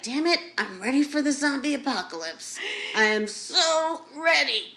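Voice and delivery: fast, excited declaration; pumped and ready for anything; eager. Retold or imitated. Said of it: "I'll be like".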